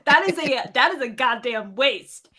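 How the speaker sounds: lightly acted outrage over wasted meat; in-character voice. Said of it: "in, in character, I'm like".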